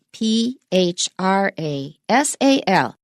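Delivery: slow, letter-by-letter spelling. Shown as a demonstration. Teacher spelling phrasal for learners, slow spelling. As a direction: spell it slowly, each letter separate. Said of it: "let's spell it".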